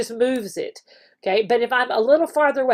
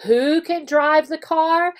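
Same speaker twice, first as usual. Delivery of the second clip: slow teacher question; 4 semitones higher, slower than usual. Shown as a demonstration. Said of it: "so you can say".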